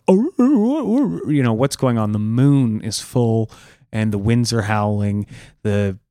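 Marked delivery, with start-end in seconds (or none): 0.1-1.3 high yelping dog noises; dogs whimpering. Retold or imitated. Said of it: "They're like".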